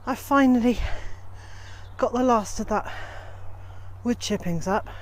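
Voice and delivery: panting after hauling barrows; breathless, catching breath between words. Real, not acted. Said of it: "As you can hear, I'm a bit out of breath".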